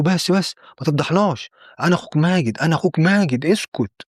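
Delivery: urgent hushing. Acted. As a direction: plead with him to stop making a scene. Brother urgently hushing a panicked man.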